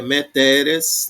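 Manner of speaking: meteres slowly, stressed on the middle TE; stress on penultimate. Shown as a demonstration. Teacher adding another example, slow penultimate stress on meteres. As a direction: draw out the TE in meteres. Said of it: "tá na penúltima".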